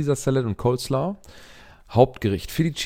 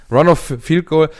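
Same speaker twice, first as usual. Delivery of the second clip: excited; 5 semitones higher, 7 dB louder than usual. Real, not acted. Excited repeated prediction.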